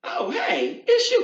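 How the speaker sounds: high-pitched startled greeting; light, surprised little hello; mock shock. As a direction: act caught off guard on seeing an ex. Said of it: "you almost are shocked".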